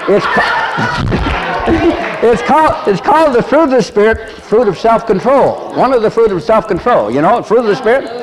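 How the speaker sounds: high, laughing through the words. Real, not acted. Preacher to congregation, laughing through explanation. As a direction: giggle while explaining. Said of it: "laughing while explaining".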